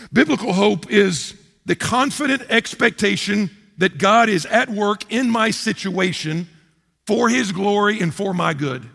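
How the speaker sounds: slow and deliberate, each word placed; slow, weighty definition. Shown as a demonstration. Pastor spelling out a definition to the church, slow and weighty. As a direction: lay the definition down slowly. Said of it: "Let me say it again".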